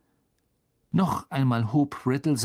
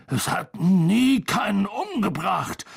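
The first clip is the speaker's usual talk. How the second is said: put-on slow, higher protesting boy; slow pleading giant; 7 semitones higher, 3 dB louder than usual. A narrator's reading. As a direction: plead slowly and desperately. Hagrid protests.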